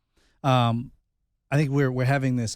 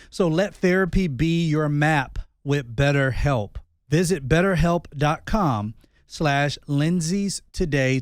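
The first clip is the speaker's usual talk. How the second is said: ad read. Acted. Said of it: "ad read with spelled URL".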